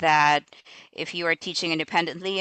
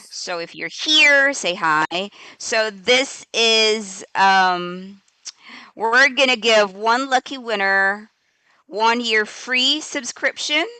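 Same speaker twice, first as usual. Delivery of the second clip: hyped giveaway announcement; 3 semitones higher, 3 dB louder, slower than usual. Real, not acted. Spinning the wheel for giveaway.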